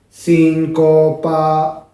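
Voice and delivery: síncopa said slowly with every syllable even, no stress; no accent. Shown as a demonstration. Teacher showing a word said with no accent, slowly. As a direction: flatten it, give no syllable weight. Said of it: "si yo no pongo acento".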